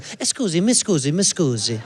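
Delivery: imitating an Italian tourist's accent; lightly voiced Italian couple pleading; mock Italian accent. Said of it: "Great accent".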